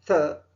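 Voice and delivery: थ as a soft th, as in thick; soft English th. Shown as a demonstration. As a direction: let air flow between tongue and teeth on थ. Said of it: "जो कि थोड़ा soft है". (थ का मुलायम अंग्रेज़ी उच्चारण)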